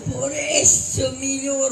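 queja llorosa y lenta; llanto fingido. Acted. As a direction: lloriquea arrastrando las palabras. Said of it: "¿Por qué lloras?". (llorón de comedia, lento y lastimero)

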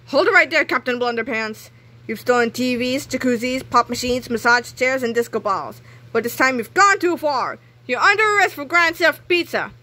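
a touch of a stern police officer; officer stopping the thief; cop arresting. Acted. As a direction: bark the arrest with authority.

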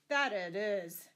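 slow, loud groan of agreement; mock groan after a beating. A narrator's reading. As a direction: groan it out, drawing the words long. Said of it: "groaned the butcher".

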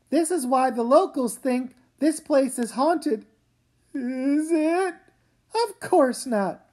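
ordinary talk

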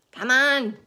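high, loud urging. A narrator's reading. Centipede urging James. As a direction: push him to hurry. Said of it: "said the centipede".

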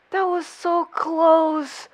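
slow, stretched exclamation; drawn-out relief. Real, not acted. Viewer reacting to a near miss, drawn-out exclamation. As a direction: draw each word out.

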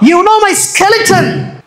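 each word drawn out and weighty; very slow scripture quote. Shown as a demonstration. Pastor slowly intoning the verse to the congregation. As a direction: linger on every word of the verse. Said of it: "slow scripture quote".

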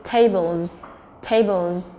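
"tables" ending in a buzzed z; teacher's model "tables", z at the end; voiced Z ending. Shown as a demonstration. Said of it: "thì chúng ta sẽ phát âm là Z".

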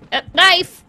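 sudden loud high exclaim; surprised. Real, not acted. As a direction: blurt out the discovery. Spots knife in game.

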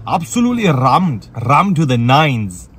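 slow, drawn-out Bradford accent on "rammed". Shown as a demonstration. Host stressing how busy Salah's is, playful Bradford accent. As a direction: roll into "rammed" like a Bradford local. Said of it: "I said it in a Bradford accent".

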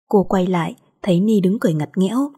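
ordinary delivery

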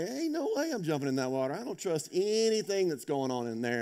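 imitating his younger self, balking; scared kid refusing. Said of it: "and I'm like".

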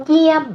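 เยี่ยม with a long vowel, starting high and falling. Shown as a demonstration. Teacher models a new Thai word, long vowel and falling tone on เยี่ยม. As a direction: draw out the vowel in เยี่ยม and let the tone fall. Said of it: "it's long vowel and falling tone".

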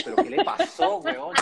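replaying confusion at a friend's odd message; alarmed surprise. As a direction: squeak of worried bewilderment. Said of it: "Y yo".

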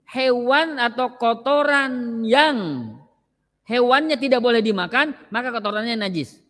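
slow and deliberate, spelling the rule out word by word; slow repeat. Shown as a demonstration. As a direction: stretch every word of the rule so the class can follow. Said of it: "Saya ulang ya".

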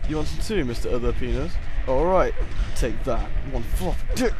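loud, cocky shouting at a foe; hammed-up combat trash talk; battle taunt. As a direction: shout it as you swing at the enemy. Taunting enemy during game fight.

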